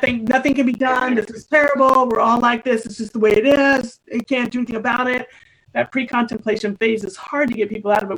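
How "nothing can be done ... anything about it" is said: exasperated complaint. Retold or imitated. Health coach imitating clients who refuse change, exasperated complaining. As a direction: rattle off a client's hopeless complaints, pushing the voice up a bit.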